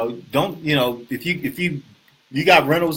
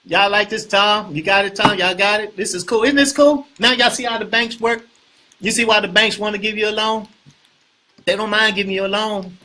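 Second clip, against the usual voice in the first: excited hype; 7 semitones higher, 5 dB louder than usual. Real, not acted. Excited hyping the audience.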